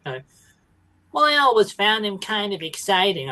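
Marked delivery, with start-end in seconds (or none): 1.1-3.3 higher-pitched, hammed-up Essex woman; Essex fishwife impression. Co-host imitating the gangster's wife's narration, mock Essex fishwife. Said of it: "sound like an Essex fishwife".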